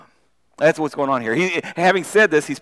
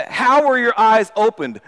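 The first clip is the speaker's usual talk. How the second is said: slow, pressing demand; 4 semitones higher, 4 dB louder than usual. Acted. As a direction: interrogate him, slow and firm. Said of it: "they demanded".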